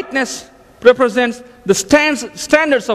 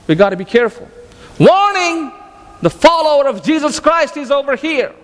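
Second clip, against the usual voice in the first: mock alarm call. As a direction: sound the alarm like a siren, then mutter the worry. Unbelievers' mock alarm, preacher acting.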